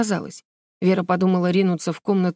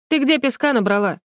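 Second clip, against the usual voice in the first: lightly mocking, a little higher; mocking question; 5 semitones higher than usual. A narrator's reading. Alina teasing Vera over sand in her shoes, mildly mocking. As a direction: tease her about the sand. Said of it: "насмешливо поинтересовалась она".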